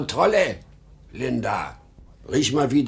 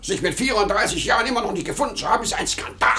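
loud outburst; 9 semitones higher, much faster than usual. Acted. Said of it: "So laut".

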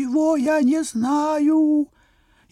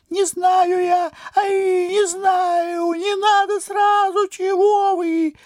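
crying out; 3 semitones higher, slower than usual. Acted. Note cries over the candle.

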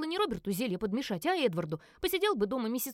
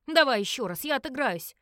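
louder, stubborn insistence; firm, angry demand; 3 semitones higher, 6 dB louder than usual. Acted. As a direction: push back hard, refusing to lose. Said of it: "сердито, а потом твёрдо произнёс". (твёрдо и сердито, громче)

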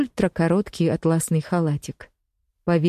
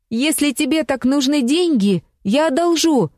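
high, loud call after someone leaving; 9 semitones higher, 4 dB louder than usual. A narrator's reading. Lesya calling after her leaving friend, loud and high. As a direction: shout it after her as she goes out the door. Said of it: "крикнула ей вслед Леся".

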